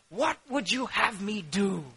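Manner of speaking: soft, caring question; gentle. Acted. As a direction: ask it softly, inviting an answer. Jesus gently addresses the blind man.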